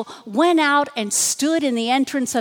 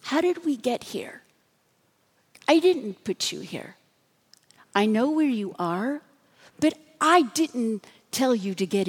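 softer, gentle fatherly tone, easing down; gentle reassurance; 3 semitones lower, 4 dB quieter than usual. Shown as a demonstration. God gently speaks to Elijah in the cave, softer and tender. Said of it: "I think he said it like this".

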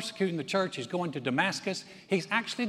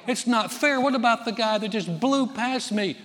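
indignant driver; 6 semitones higher, 4 dB louder than usual. Retold or imitated. Driver protesting a speeding ticket.

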